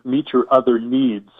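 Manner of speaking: needs said slowly and leaned on; slow, deliberate stress on needs. Shown as a demonstration. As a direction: land hard on the word needs. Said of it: "I'm emphasizing the word needs".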